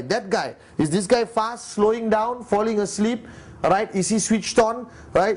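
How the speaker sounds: a demanding boss firing off questions; tough mentor grilling. Retold or imitated. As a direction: press him hard, question after question, like a strict mentor. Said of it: "But not Dato".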